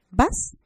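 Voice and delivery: "¿Vas?" asked with a rising tune; one-word question, rising. Shown as a demonstration. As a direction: lift the end of "¿Vas?" as a question. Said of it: "una sola palabra".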